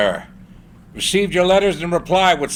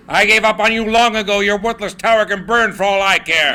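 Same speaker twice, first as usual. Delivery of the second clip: angry tirade; 5 semitones higher, 3 dB louder than usual. Acted. Morgan berates Tesla.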